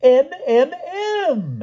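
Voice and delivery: very high, rising frustrated cries; beginning to shout. A narrator's reading. Pellinore pressing his clue on the knights, shouting. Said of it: "beginning to shout".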